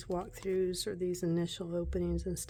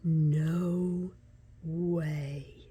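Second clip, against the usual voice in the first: surprised; 3 semitones lower, 4 dB louder than usual. Real, not acted. Reacting to a card.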